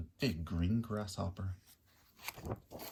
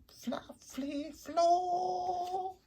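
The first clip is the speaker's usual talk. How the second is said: tumbling words; 4 dB louder, much slower than usual. Acted. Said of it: "how embarrassing from flip".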